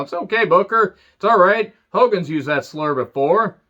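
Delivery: calm him down in a light mock voice; mock calming manager. Sherry calming Booker down, lightly voiced soothing. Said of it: "Sherry having to calm him down".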